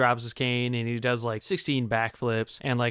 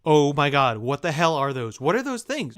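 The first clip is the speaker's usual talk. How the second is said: freaking out; 3 dB louder than usual. Acted. Crowd spotting tiny orange people, freaking out. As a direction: blurt it out in hammed-up alarm. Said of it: "everyone starts freaking out".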